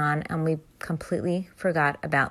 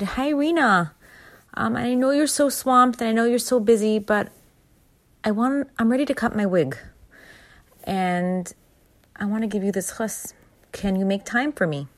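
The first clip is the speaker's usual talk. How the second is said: a lightly higher, hopeful voice asking a favour; eager, slightly pleading; pleading request; 5 semitones higher than usual. Retold or imitated. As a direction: ask a busy friend sweetly for a favour. Speaker voices herself asking friend.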